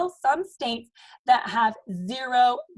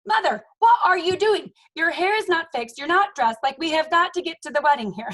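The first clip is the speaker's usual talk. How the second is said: exasperated mom; 5 semitones higher, 4 dB louder than usual. Retold or imitated. Mom urging grandma on wedding day.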